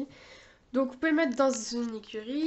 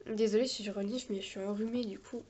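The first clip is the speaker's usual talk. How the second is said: talking with a cold, nose blocked. Real, not acted. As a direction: speak through a stuffy nose. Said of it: "en plus je parle du nez".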